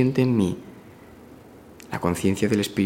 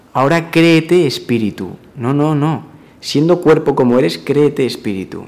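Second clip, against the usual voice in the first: mocking; 4 semitones higher, 6 dB louder than usual. Mocking the wrong way to affirm.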